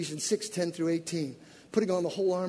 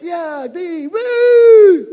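high, louder whoop rising to a scream; lone fan cheering; 9 semitones higher, 16 dB louder, much slower than usual. Retold or imitated. Proud parent alone in the stands, whooping loud. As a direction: cheer your lungs out for her. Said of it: "you're the only one in the whole stand".

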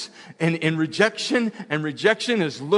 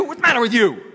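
a raised, half-hearted yell at the nephew; mild mock yell; 7 semitones higher, 6 dB louder, faster than usual. Uncle about to yell at nephew, mock raised yell. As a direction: snap it out louder, like scolding. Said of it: "I was about to yell".

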